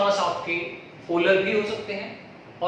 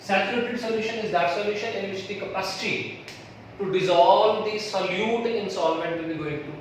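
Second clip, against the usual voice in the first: slow dictation; much slower than usual. Acted. Dictating definition to students.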